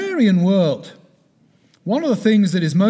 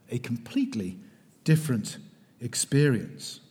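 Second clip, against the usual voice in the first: emphatic whispered repeat; 6 semitones lower, 7 dB quieter than usual. Real, not acted. Lecturer repeats phrase for emphasis.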